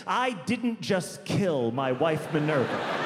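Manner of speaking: slow, over-careful paranoid denial; mock-paranoid doctor spelling it out slowly. Doctor insisting he didn't kill his wife, paranoid. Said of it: "as if he was saying".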